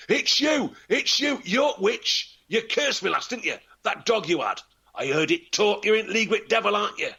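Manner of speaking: very high, frantic cry of blame; sick peddler accusing the girl, very high; frantic accusation. A narrator's reading. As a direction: point at her and shriek in terror. Cursed man accuses the witch.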